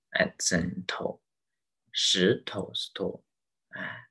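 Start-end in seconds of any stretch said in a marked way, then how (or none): 1.9-3.2 石头 with a light, fading 头; neutral-tone demo. Shown as a demonstration. Teacher repeats an example, 石头 with 头 in neutral tone. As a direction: stress 石, let 头 drop away. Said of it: "有三种neutral tone啊".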